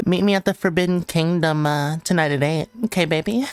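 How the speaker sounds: playful flirt broken by giggles; mock flirting. Streamer flirting with a rival nation, laughing. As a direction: invite the rival over like a date.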